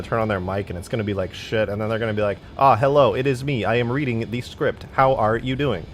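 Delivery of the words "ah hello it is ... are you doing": stilted, wooden script reading; bad voice actor. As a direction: read it like an amateur reciting off the page. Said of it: "noticeably bad voice actor".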